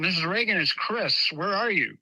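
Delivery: mild call into another room. Retold or imitated. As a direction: retell calling out to someone unseen. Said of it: "I'm calling her".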